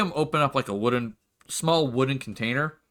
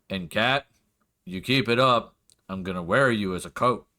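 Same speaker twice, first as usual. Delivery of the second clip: lightly voiced threat; 3 semitones lower than usual. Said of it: "he'll look over at Zatan and go".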